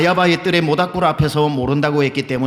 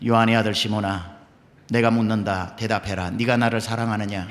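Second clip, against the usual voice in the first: voice of the Lord; 6 semitones lower, 4 dB quieter than usual. Acted. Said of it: "주님이 하신 방법이 뭐냐면은".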